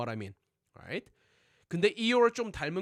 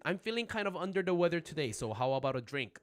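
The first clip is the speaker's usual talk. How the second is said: American accent. Shown as a demonstration. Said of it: "That's an American right there".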